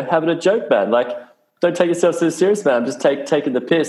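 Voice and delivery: high, easygoing teasing voice; playful Australian mate reassuring a literal American; breezy Aussie banter. Retold or imitated. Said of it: "And I'm like".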